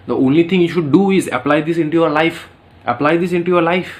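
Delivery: very slow, weighty; earnest slow counsel; slow emphatic advice. Shown as a demonstration. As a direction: drive the advice home. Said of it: "advice repeated slowly".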